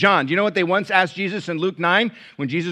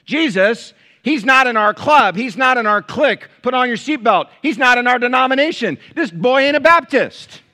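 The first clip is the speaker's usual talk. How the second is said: higher, louder mock outrage, laughing at the end; mocking disciples; 9 semitones higher, 10 dB louder than usual. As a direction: ham up the snobby insiders.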